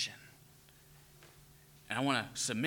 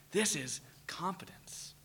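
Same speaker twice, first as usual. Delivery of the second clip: whisper; 7 dB quieter than usual. Real, not acted. Whispered emphasis after story.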